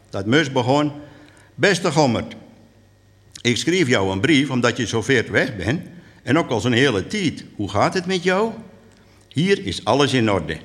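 lively storyteller's reading; measured dialect storytelling; story narration. A narrator's reading. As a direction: tell it to an audience as a tale. Reads story and letter aloud.

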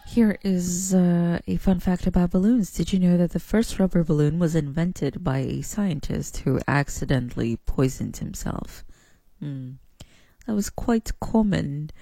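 put-on a mild, amateur British accent; attempted British accent. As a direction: try on a British accent, not quite landing it. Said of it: "that was my attempt to a British accent".

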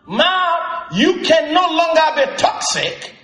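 rising, stern command to one's own mouth. Retold or imitated. Pastor shows believers how to command their mouth, stern and rising. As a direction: order your mouth, building in force. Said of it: "You can tell your mouth".

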